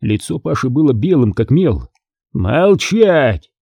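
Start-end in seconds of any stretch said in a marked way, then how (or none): 2.3-3.5 roared. Acted. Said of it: "взревел Петровский".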